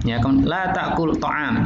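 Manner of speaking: "la ta'kul ta'am" read slowly, clearly; slow classroom negation drill; slow model reading. Shown as a demonstration. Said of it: "teacher models negation".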